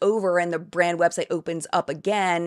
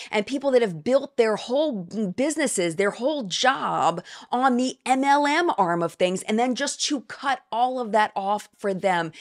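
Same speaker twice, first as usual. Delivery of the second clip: sarcastic mockery; 4 semitones higher than usual. Sarcastic mock of MLM pitch.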